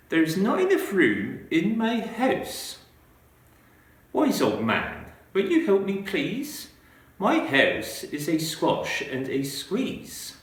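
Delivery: put-on a flustered little old lady pleading for help; fretful old lady. Reads old lady's lines.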